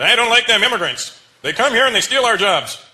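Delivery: slow, high, loud redneck-style gripe; racist complainer. Retold or imitated. Comic imitating racist people griping about immigrants, drawn-out mock rant. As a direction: complain slowly and loudly like a bigot. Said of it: "I hear racist people say that".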